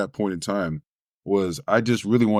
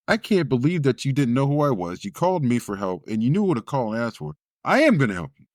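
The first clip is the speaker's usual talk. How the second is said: lady on phone; 5 semitones higher than usual. Retold or imitated. Famous lady voiced on phone.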